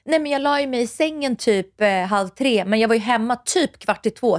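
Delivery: lightly acted innocent excuse, stretching out the long shower. Wife telling partner a white lie about coming home, mock innocent. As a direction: sell the lie sweetly. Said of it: "säga till Douglas så här".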